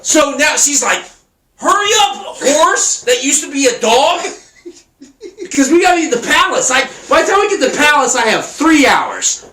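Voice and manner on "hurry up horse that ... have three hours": mock-panicked Cinderella urging the horse on; frantic hurry. Cinderella rushing to the palace.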